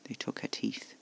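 quiet, low-energy revelation; grim, hushed. A narrator's reading. Casper revealing what was done to the vampire, grim. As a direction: say it softly and grimly. First grim report, after dry laugh.

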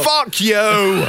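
high, drawn-out mock yell; imitated furious wrestler. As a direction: bellow it like an outraged wrestler, played for laughs. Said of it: "you can clearly seeing him going".

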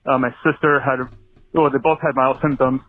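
breathless from running; talking while running for breath. Real, not acted. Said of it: "so I'm out of breath".

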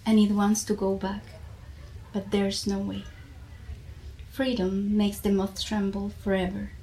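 measured, deliberate reading of a poem; poetry reading. Acted. Reading her favourite poem aloud to the listeners, in a measured poetry-reading voice. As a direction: let each line land, pausing between images.

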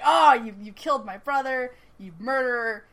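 mock anger, bursting out loud then easing; retold pissed-off accusation. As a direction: act out an accusation, loud at the start. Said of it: "Peter's pissed".

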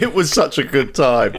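slow, put-on fake human voice; a flea trying hard to pass as a person, slowly; flea acting human. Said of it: "what a flea would say if he was trying to act like a human".

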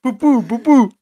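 put-on high, loud childish wail for mama; French kid crying for mama. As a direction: call for mum like a frightened little boy. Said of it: "So he was like".

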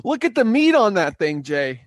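high, loud hammed-up Boston voice; mock Boston fisherman. Boston guy marvelling at the fish to Jay, loud mock voice. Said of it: "the two Boston guys".

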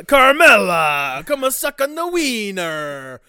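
bad loud Jersey gangster send-up; mock Tony Soprano. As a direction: ham up a Jersey mobster to his wife. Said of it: "the next Tony Soprano".

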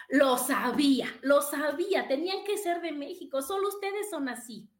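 excited exclamation. Retold or imitated. Cashier exclaims on learning.

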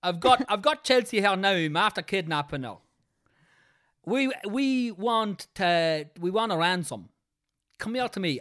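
put-on Dundalk accent. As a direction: play a Dundalk kidnapper demanding ransom. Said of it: "I can only do Dundalk".

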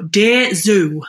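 a hint of broad Yorkshire, read like a bedtime story; lightly put-on Yorkshire reading voice; Yorkshire accent. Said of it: "read it in a horrid Yorkshire accent".

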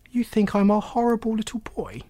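put-on high-pitched, incredulous boy; taken aback.

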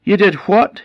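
high, loud furious cry. Acted. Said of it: "the man was furious".

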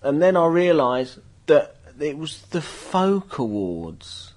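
slow punchline. Retold or imitated. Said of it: "he goes".

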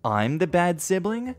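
put-on understated angry brother venting old grievances; snapping back. Brother telling off his sister, mild angry snap. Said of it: "I snapped and said".

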